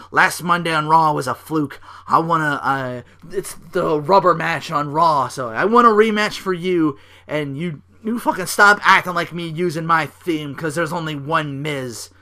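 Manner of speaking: loud, cocky rant; angry demand. Retold or imitated. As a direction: rant like an offended star. Miz quoted demanding rematch.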